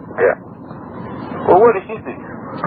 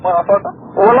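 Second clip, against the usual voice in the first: ordinary delivery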